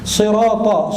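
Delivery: Sirata opened with a heavy, dark s; sod, not sin. Shown as a demonstration. Preacher correcting the verse, Sirata with a thick s. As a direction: round the s of Sirata into an emphatic sod. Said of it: "sodnya, bukan sin".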